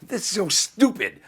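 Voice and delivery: high, loud and slow, cracking up; laughing disbelief. Retold or imitated. Comic unable to say one word to Sammy, laughing disbelief. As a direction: exclaim it through helpless laughter. Cracking up at himself mid-story.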